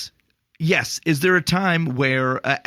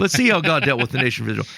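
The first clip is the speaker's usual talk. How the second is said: faster, mock-challenging echo of his words; quick mocking echo; faster than usual. Answering the doofus, a quick mocking echo. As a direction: throw his phrase back at him quickly. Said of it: "I said".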